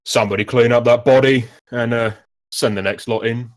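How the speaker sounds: lightly voiced gruff official; a touch of gruff, dock-worker roughness. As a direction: order it out in a mildly gruff voice. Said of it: "a gruff voice".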